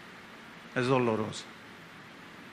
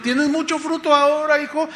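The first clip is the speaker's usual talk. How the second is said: high, slightly raised-voice inquiry; the Lord questioning; 7 semitones higher, 3 dB louder than usual. Acted. The Lord asks his son about fruit, questioning. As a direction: ask as the Lord checking on a son. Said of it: "viene el Señor".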